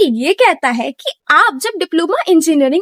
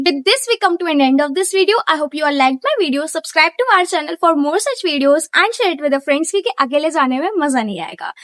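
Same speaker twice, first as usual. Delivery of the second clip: slow, spaced-out closing lines to viewers; slow outro sign-off; slower than usual. Acted. Vlogger signing off to subscribers, slow deliberate outro. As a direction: wind down the video slowly and deliberately.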